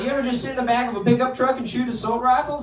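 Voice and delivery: high-pitched, chummy redneck question; excited redneck. Acted. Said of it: "rednecks and terrorists, like, all the same things".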